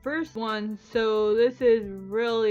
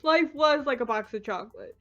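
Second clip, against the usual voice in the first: mock Forrest Gump.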